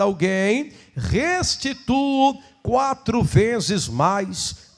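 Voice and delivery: slow solemn Bible reading; scripture reading. Acted. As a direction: read the verses with reverence. Reads Bible passage aloud.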